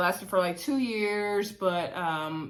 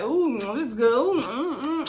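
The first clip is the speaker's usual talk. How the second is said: hammed-up high moans of pleasure over the food; mock food moaning; 5 semitones higher, 3 dB louder than usual. Recapping Nivea being fed on the date, mock yummy moans. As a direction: imitate her savoring every bite with little moans. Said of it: "Nivea's like".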